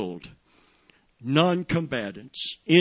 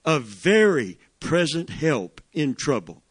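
"very" leaned on, whole phrase a touch louder; stressed very; 2 semitones higher, 4 dB louder than usual. Shown as a demonstration. Preacher repeats the verse for the church, stressed "very". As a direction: repeat it, pressing on "very". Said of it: "emphasis here".

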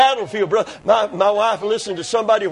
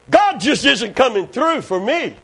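lightly acted complainer; a touch of a whine, imitated; mock whining; 5 semitones higher, 3 dB louder than usual. Preacher imitating believer accusing God of unfaithfulness, mock whining. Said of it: "The Bible called that whining murmuring".

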